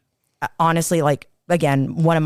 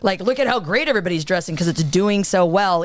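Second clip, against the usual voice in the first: mocked sheriff; 2 semitones higher than usual. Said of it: "the freaking sheriff literally goes".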